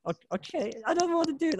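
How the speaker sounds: high mock-scared volunteer voice; reluctant volunteer. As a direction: squeal like a nervous audience member. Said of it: "I'm getting in character".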